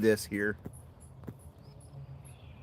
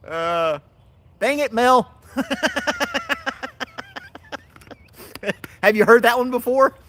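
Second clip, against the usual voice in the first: much higher, louder laughing exclaim; 13 semitones higher, 8 dB louder than usual. Real, not acted. Streamer laughing at a viewer who got the quiz right. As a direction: laugh it out, caught off guard.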